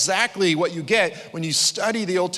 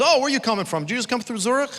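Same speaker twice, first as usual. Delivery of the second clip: New York guy; 9 semitones higher, faster than usual. Retold or imitated. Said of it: "And he goes".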